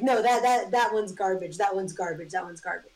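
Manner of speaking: put-on poking fun at an Essex friend's accent; dismissive, badly faked British accent; lightly put-on Essex accent, fading off; mock Essex accent. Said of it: "intentionally make fun of his accent".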